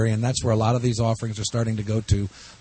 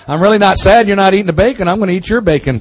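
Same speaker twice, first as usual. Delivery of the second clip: excited; 8 semitones higher, 9 dB louder, faster than usual. Real, not acted. Teasing about bacon, loud.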